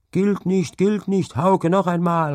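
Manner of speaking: high, loud protesting cry; shouting protest. A narrator's reading. Teammates protest Hauke's short throw, calling out high and loud. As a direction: yell that the throw doesn't count. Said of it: "riefen seine Partner".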